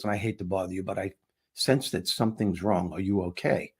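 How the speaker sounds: low, soft retold concern; gentle concern. Stranger on a plane asks after a troubled passenger, gentle concern. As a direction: check in softly, keeping it low.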